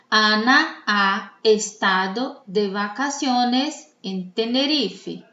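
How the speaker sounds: slow, measured read-aloud for students; slow dictation. Shown as a demonstration. Teacher reads for students to mark stressed syllables, slow dictation. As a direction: dictate it slowly, word by word. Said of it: "Vocês vão me escutar".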